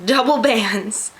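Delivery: laughs, then says "double bands" slowly and firmly; amused self-correction of "double bands"; laughing correction. Real, not acted. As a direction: fix the slip with a laugh, slow on "double bands". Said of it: "I can speak".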